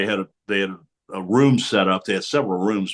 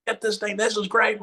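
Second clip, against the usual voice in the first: excited exclaiming; 11 semitones higher, 4 dB louder than usual. Retold or imitated. Madden bouncing around room.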